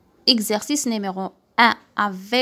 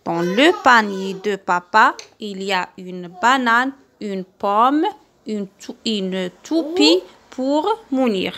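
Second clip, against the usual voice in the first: slow reading aloud; slower than usual. Shown as a demonstration. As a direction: read it slowly and clearly for children. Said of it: "à haute voix le texte".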